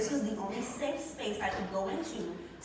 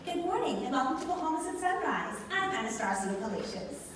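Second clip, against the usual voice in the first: bright, higher TV host greeting; morning show host; 5 semitones higher than usual. Retold or imitated. Host greeting her morning viewers on Bahamas at Sunrise, upbeat. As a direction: open the show like a sunrise anchor. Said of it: "talk every day in the Bahamas by getting up and saying".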